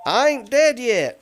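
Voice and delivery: loud, high mock of a stubborn old man. Host imitating an old man in bed, loud and high. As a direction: bark it out like a grumpy old man who refuses to die. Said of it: "he said".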